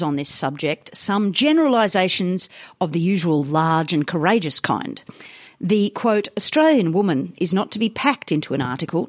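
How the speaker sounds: put-on measured old-newspaper editorial reading; reading aloud. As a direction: read the article out with deliberate phrasing.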